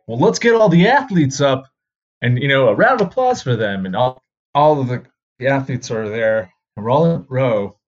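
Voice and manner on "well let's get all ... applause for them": loud, raised announcer voice of the principal; rally the gym like a principal; principal announcing. Retold or imitated. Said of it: "the principal was like".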